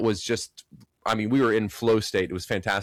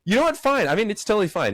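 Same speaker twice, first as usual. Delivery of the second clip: mock huffy; 10 semitones higher, faster than usual. Mock defensive outburst.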